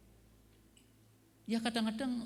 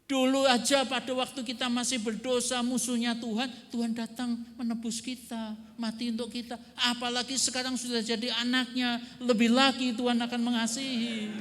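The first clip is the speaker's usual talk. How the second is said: rising preaching fervour; 5 semitones higher, 4 dB louder than usual. Real, not acted. Preacher builds climax of argument.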